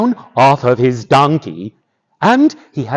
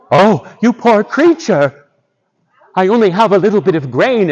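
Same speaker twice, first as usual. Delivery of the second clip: pitying; 4 semitones higher than usual. Acted. Boots finds a starved wolf on the road, pitying. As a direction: exclaim with pity for a suffering animal.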